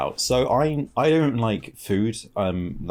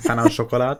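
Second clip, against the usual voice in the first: French accent; 3 semitones higher than usual. Shown as a demonstration. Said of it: "My French accent".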